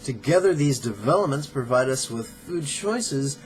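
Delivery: measured, emphatic reading from a book; formal read-aloud with deliberate pauses; book excerpt read-aloud. Acted. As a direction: read it out deliberately, stressing key words.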